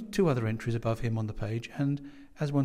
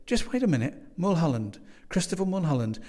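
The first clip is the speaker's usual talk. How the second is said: high, loud, urgent recall; dawning realisation; 6 semitones higher, 4 dB louder than usual. A narrator's reading. Young man recalling the missing guest's name, excited. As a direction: grasp excitedly at the memory. Guest suddenly remembers, breaks in.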